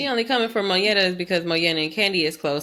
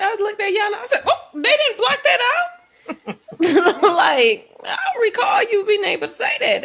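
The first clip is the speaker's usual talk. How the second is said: high, loud, laughing disbelief; 11 semitones higher, 4 dB louder than usual. Real, not acted. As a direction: laugh through the words. Laughing about the uncensored word.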